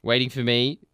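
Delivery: announcer voice. Acted. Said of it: "I sound like an F B I announcer".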